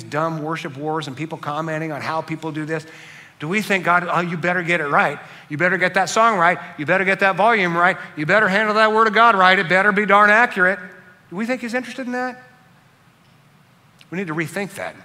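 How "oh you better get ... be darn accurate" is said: a scolding that builds louder line by line; hammed-up demanding God, rising to louder scolding; mock fussy God. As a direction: nag like a picky taskmaster, getting louder. Imagined God nagging about worship.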